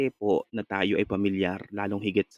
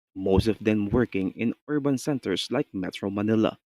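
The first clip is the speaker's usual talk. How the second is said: clear, measured newsreader delivery; news read. Shown as a demonstration. Teacher reads a sample news story for the class. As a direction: read it like a broadcast news item.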